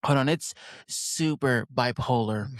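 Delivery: light California accent, laid back. Shown as a demonstration. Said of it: "I gotta put on my California accent".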